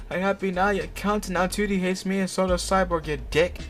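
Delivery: high-pitched accusing rant; mock angry outburst. A narrator's reading. Repeats the acted angry outburst.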